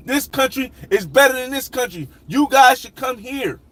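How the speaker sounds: mock hype-vlogger voice; mocking gushing YouTuber. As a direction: parody a travel vlogger hyping his spot. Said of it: "they go to one place and they say".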